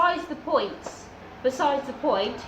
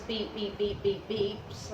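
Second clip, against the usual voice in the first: censor beeps; 2 semitones lower, 5 dB quieter, slower than usual. Retold or imitated. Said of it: "Lots of swear words".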